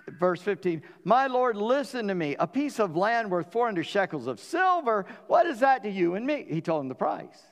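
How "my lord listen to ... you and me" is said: grand address. Acted. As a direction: sell it grandly as a trifle. Ephron names his price.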